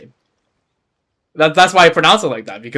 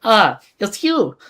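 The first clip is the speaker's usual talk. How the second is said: lightly put-on French accent, a little higher; attempted French accent; 4 semitones higher, slower than usual. Melusine greeting a visitor, tentative French accent. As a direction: try a French-accented character voice, haltingly. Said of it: "do a voice with a French accent".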